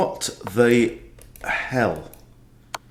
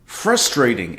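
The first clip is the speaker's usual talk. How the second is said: "Frustrating" stressed on FRUS, falling away; stress on first syllable; slower than usual. Shown as a demonstration. Chess streamer mocking American pronunciation, first-syllable stress. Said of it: "emphasis on first syllable".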